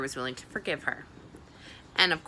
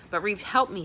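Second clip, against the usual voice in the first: desperate; 4 semitones higher, 4 dB louder than usual. Acted. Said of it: "said Janny desperately".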